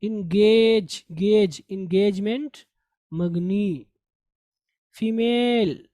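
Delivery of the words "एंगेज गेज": slow, drawn-out एंगेज, then गेज alone; syllable drill. Shown as a demonstration. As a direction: stretch गेज long and loud. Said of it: "एंगेजमेंट गलत है".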